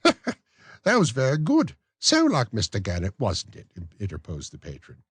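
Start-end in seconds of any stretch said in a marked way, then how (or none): 0.0-3.7 high, prim lady's voice; genteel matron. Acted. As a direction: play the coy matron. Matron laughing praise.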